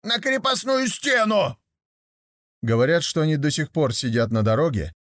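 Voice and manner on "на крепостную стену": гораздо выше, медленно, с криком; прокричи со злостью; сердитый крик. Acted. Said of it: "сердито спорили". (пятый слепой сердито кричит в споре)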